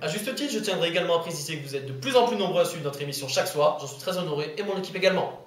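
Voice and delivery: pompous evening news read; mock news anchor. Anchor greeting viewers, mock news anchor. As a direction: play the self-important TV presenter.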